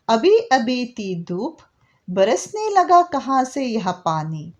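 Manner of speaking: slow, measured reading of verse; poem recitation. Acted. Teacher reading the whole poem aloud for the class. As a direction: read each line slowly, with pauses.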